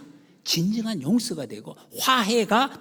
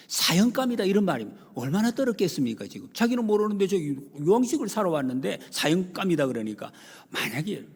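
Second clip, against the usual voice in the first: ordinary talk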